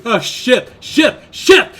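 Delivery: panicked swearing. Acted. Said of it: "your passive investigation tells you".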